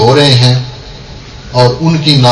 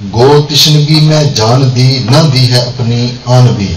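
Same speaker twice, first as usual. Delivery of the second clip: measured Urdu couplet recital; poem recitation. Acted. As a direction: recite to a gathering with pauses between phrases.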